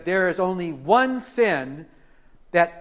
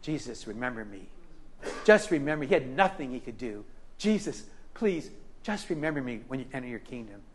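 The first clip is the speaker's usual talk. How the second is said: pleading thief; 5 semitones lower, 8 dB quieter than usual. Retold or imitated. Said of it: "thief on the cross said".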